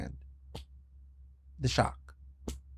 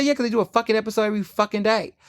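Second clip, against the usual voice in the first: snappy retort; 7 semitones higher, faster than usual. Retold or imitated. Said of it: "I say".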